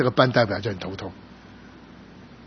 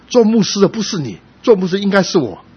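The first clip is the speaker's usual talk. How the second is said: higher and louder, a teasing laugh in the voice; laughing jab; 8 semitones higher, 6 dB louder than usual. Retold or imitated. Old classmate teasing the pastor, pointing and laughing. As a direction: poke fun at the pastor with a laugh. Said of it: "然后就笑着指着我说".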